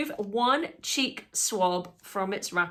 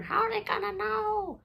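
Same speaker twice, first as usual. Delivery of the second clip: much higher panicky quoted voice; mock panicky; 13 semitones higher than usual. Freaking out about the sample, a high mock-panic echo. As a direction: play up her own panic. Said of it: "now I'm freaking out, going".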